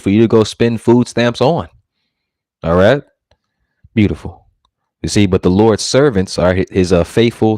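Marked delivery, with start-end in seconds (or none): 3.9-4.5 hushed satisfied whisper; whispered aside. Real, not acted. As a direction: breathe the word, almost unheard. Aside after doom prophecy.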